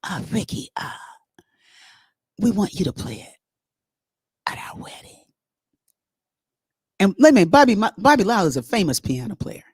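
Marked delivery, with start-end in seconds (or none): 0.0-5.2 Bobby's soft voice. Retold or imitated. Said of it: "Bobby talks like this".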